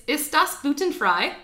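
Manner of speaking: German phrase, careful German vowels. Shown as a demonstration. Teaching her friend a German phrase in a German accent. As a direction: say it the German way, evenly. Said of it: "the first one I actually wrote down".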